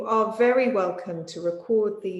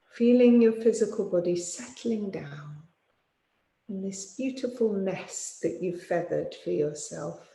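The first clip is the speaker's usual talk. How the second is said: guided meditation. Real, not acted. Yoga teacher settling listeners for sleep, calm guided meditation. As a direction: ease them toward sleep, unhurried, phrase by phrase.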